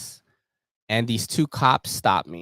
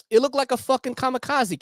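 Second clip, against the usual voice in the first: laughing; 13 semitones higher than usual. Retold or imitated. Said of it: "the guy cop was like".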